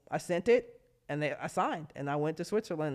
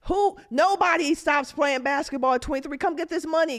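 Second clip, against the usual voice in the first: higher, pleading sales pitch; mocking the teams; 9 semitones higher, 4 dB louder than usual. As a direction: coax her back like a pushy agent.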